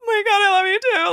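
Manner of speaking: high, loud acted squeal; over-the-top loving outburst; gushing reply. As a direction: squeal it back with delight. Acting out delighted reply.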